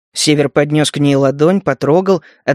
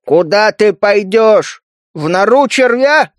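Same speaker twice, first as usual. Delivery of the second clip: skeptical; 3 semitones higher, slower than usual. Acted. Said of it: "скептически спросил Скю".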